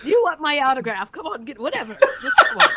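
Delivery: celebrity bravado. Acted. Celebrity coaxing jumper.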